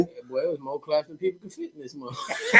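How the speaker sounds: laughing while talking. Real, not acted. Recalling the crowded show, laughing.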